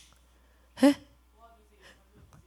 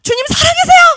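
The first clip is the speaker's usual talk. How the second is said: high pleading cries, rising to loud; crying out; 9 semitones higher, 7 dB louder than usual. Acted. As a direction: beg God for an answer, building to a cry. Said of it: "라고 외치고 있는 거예요".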